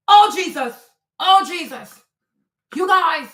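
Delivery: high, loud dismay; alarmed. Real, not acted. Streamer reacts to the photo to her chat, alarmed. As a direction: breathe it out in shock.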